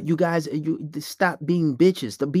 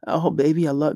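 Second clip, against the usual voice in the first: mock simp voice; 4 semitones lower than usual. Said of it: "You sound like a bitch right now".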